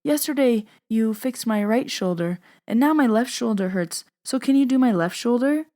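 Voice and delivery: a hint of an old grandma asking a favor; imitated grandma. Grandma asks granddaughter to treat her shoulder, lightly imitated grandma. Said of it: "My grandma says".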